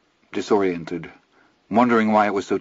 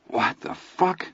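sudden high, startled question; blurted out, genuinely baffled; honest puzzlement; 10 semitones higher, 3 dB quieter, slower than usual. A narrator's reading. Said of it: "I asked in honest puzzlement".

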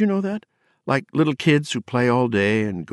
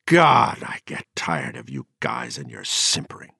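put-on a drunk man's contempt, louder and higher at the end; angry rant; 5 semitones higher, 4 dB louder than usual. The speaker mocking the Luddite poets, scornful and rising. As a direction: lash out at them, climbing to a cry of Jesus.

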